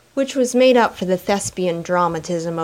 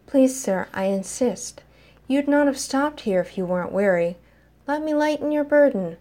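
silky tones; 5 semitones higher than usual. Acted. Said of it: "Roderick pressed in the silkiest of tones".

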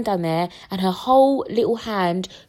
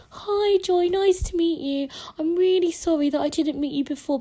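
sugary midwife; 10 semitones higher than usual. Retold or imitated. Midwife voiced in the story.

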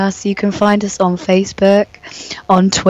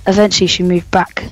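sultry story reading; 3 semitones lower than usual. Acted. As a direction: read it like a seductive audiobook. Reads erotic story aloud.

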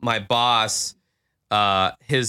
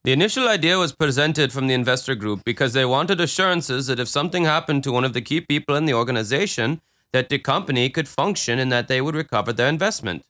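mock Indian accent; faster than usual. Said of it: "He just wants to do the accent".

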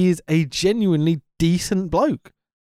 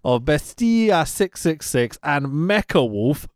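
put-on Spanish-Mexican accent; 7 semitones higher, slower than usual. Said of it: "I like to do the whole, uh, Spanish-Mexican accent type thing".

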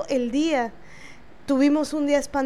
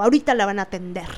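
mildly imitated anger; 4 semitones lower, much faster than usual.

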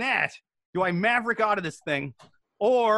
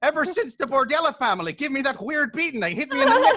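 high, strangled cartoon gangster; hammed-up voice of someone hit in the neck; funny-talking mobster; 4 semitones higher, 3 dB louder than usual. Mobster explaining his beating, high mock-injured voice. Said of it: "I talk funny".

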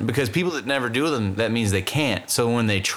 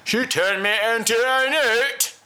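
high, drawn-out mock Cajun accent; badly mangled Cajun take on British; 10 semitones higher, slower than usual. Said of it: "the Cajun's version of that".

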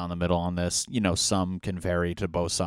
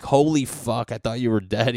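thrilled disbelief; 4 semitones higher, 6 dB louder than usual. Acted. Friends greeting returned castaway.

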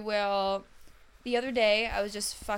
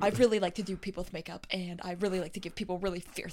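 lightly voiced lisping makeup artist; lisping character; 2 semitones lower, faster than usual. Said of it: "You mastered the lisp".

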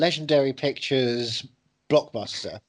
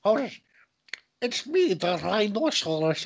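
mock Russian accent; 3 semitones higher than usual. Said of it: "I'm doing a Russian accent".

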